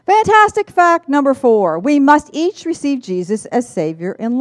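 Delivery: high, loud proclamation; big announcement. Acted. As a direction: announce it like a headline. Announcing the last fact.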